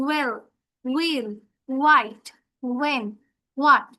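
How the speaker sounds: "well, will, white, when, what" one by one, falling; WH sound demo. Shown as a demonstration. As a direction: drill the opening WH in each word. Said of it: "হয় এর মতো উচ্চারণ হবে".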